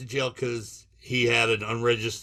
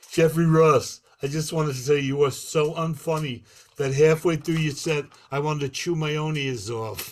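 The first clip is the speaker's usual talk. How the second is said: lightly voiced boxer, pitched up a little; Mike Tyson; 3 semitones higher than usual. Comic retells Tyson's roast of Jeff Ross, light Tyson impression. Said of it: "And Mike Tyson goes".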